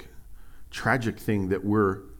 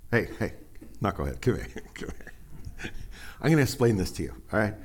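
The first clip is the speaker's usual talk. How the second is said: goofy corny dad. Retold or imitated. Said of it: "My dad was always, like, goofy, corny".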